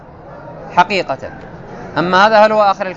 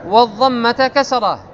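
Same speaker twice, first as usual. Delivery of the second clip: measured, raised recital of the classical grammar text; a higher, deliberate textbook reading; 4 semitones higher, slower than usual. Acted. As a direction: read the rule out like a set text. Reads grammar text aloud.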